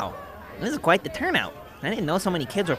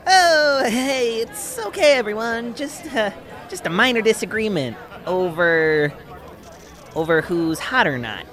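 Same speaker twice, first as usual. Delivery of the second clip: nervous laugh-it-off; 5 semitones higher, 3 dB louder than usual. Acted. Nervous cover to crowd.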